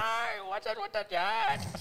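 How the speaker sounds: very high, slow mock Chinese accent; terrible Chinese accent. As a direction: stretch it out in a cartoonish Chinese accent. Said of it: "It's terrible".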